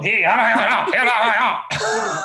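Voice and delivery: high mock-Scottish gibberish; hammed-up Scottish babble; garbled Scottish accent. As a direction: mimic an incomprehensible Scottish brogue. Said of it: "strong Scottish dialect".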